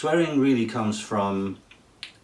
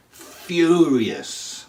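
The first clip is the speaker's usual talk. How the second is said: mock furious; 8 semitones higher, 7 dB louder than usual. Teacher hamming up an angry man in his example, loud and high. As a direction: shoot up high and loud on the word. Example sentence, acting the anger.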